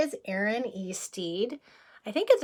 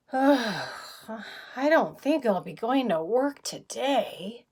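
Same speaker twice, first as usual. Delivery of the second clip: sick Amos; 4 semitones higher, slower than usual. Acted. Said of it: "and said".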